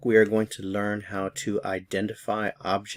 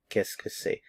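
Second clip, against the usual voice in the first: soft whispered demo; 6 dB quieter than usual. Shown as a demonstration. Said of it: "just listen to the sounds".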